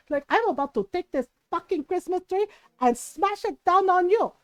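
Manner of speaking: mock-furious mom threatening; hammed-up threat, building in force; retold angry threat. Mom threatens tita in quarrel.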